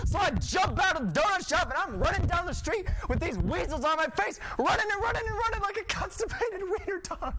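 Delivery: high, hysterical storytelling at a yell; frantic yelling. Acted. Storyteller fleeing down the street with weasels, frantic yelling. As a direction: keep the mock panic high as it spills into narration.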